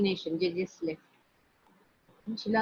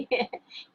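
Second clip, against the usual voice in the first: a short mock chuckle; brief laugh; 3 semitones higher than usual. Storyteller chuckles at Nandi's calm. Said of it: "he was laughing".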